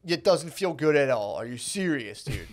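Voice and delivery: lightly voiced, exasperated girlfriend; half-laughing imitation of an incredulous girl; mock girl protest. Girls complaining to guys, mock exasperated protest.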